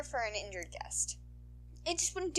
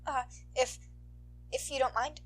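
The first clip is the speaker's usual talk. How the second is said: put-on higher, hesitant kid voice; shy boy; 5 semitones higher than usual. Boy asking the heroine for an autograph, shy. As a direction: ask timidly.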